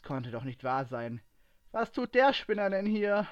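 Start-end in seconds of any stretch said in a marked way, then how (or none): 1.7-3.3 high, loud exclamation; louder than intended. A narrator's reading. Ray spotting a known rival at the market, loud outburst. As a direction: blurt it out in loud disbelief. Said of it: "rief Ray lauter, als es geplant war".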